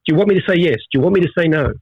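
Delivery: lightly acted helpless pleading; mild, mock-desperate confusion; bewildered captive. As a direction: plead for a clue to the right answer. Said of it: "He doesn't know what to say".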